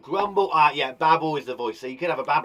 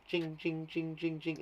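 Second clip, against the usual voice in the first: jingle imitation; 9 dB quieter than usual. Shown as a demonstration. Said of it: "describes the way in which it sounds".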